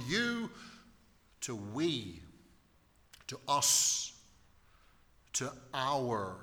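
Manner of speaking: "you", "we", "us", "our" each set apart by pauses; stressed pronouns. Shown as a demonstration. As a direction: hit each pronoun alone, pausing between. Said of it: "he changes from".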